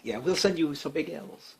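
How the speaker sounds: softly put-on French accent; half-hearted mock French voice; bad French accent. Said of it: "my bad Fre-, French accent".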